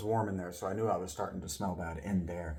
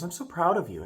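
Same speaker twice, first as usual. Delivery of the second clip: imitating a proud helper, pitched up; raised, heartfelt mock praise; 7 semitones higher, 4 dB louder than usual. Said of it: "looked at me so proud".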